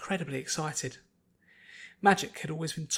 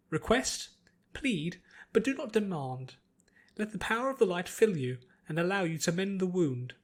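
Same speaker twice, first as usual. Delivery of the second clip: lightly voiced priest teacher; 4 semitones higher than usual. Priest teaching Pinkie to heal, lightly solemn. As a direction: gently lecture on healing prayer.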